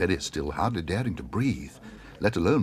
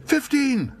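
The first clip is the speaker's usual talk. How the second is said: very high, louder wild shout; 6 dB louder than usual. Acted. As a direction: fling the bid out wildly. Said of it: "shouted Paddington wildly".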